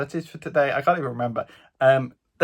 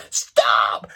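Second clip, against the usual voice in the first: retold shout; 4 semitones lower, 4 dB louder than usual. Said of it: "they just started shouting".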